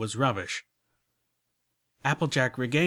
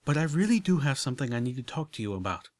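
quick, lightly voiced genteel unicorn turning serious; a touch of refined lady; 4 semitones higher, faster than usual. Rarity turning serious with Applejack, lightly voiced refined lady. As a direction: hurry to the serious matter, a hint of Rarity.

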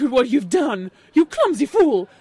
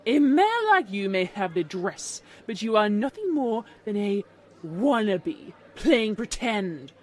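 loud, lower-pitched haughty put-down; snobbish contempt; 4 semitones lower, 6 dB louder than usual. A narrator's reading. Snobbish unicorn insults Applejack.

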